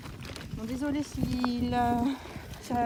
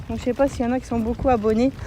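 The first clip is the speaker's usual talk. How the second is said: shouting over wind; 5 dB louder, faster than usual. Real, not acted. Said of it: "m'entendez bien avec le vent".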